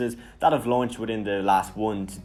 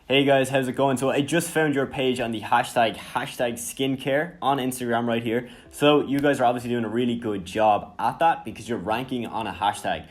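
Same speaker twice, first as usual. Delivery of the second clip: friendly, energetic DM read; upbeat voice message. Shown as a demonstration. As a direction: sound like a real person excited to reach out. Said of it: "here's an example of how you would start off the message".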